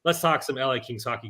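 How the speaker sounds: ordinary talk, nothing marked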